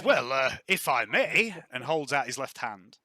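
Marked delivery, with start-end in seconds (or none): 0.0-1.5 louder, slower, polite request; gruff general. Acted. General asking to hold the pistol, politely gruff. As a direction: ask to take the gun, gruffly polite. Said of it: "he says".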